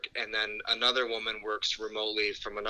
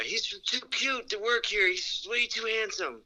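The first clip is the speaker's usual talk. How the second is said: teasing coworker; 8 semitones higher than usual. Retold or imitated. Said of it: "Yeah yeah yeah".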